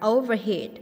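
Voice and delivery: "overheat" stressed on its last syllable; stress on third syllable. Shown as a demonstration. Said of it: "nhấn âm ba". (nhấn âm ba "overheat")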